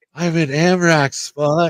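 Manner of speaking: put-on whisper. Retelling recording a reel while others slept: imitating own whisper. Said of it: "whispering 'cause you guys were sleeping".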